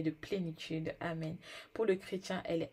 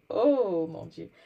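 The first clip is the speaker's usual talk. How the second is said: loud cry; 9 dB louder, much slower than usual. Real, not acted. Preacher cries out mid-reading.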